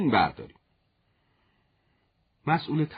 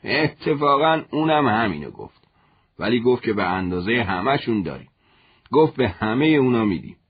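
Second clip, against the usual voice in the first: quick and eager, louder; quick eager reply; 6 dB louder than usual. Acted. Father quickly answers his son about the sneakers, eager and louder. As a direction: rush it out eagerly, voice up. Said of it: "خیلی زود گفت".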